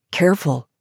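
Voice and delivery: lightly voiced man; a hint of the man steadying her; man's cautioning voice. A narrator's reading. Man steadying a woman who slipped, lightly cautioning.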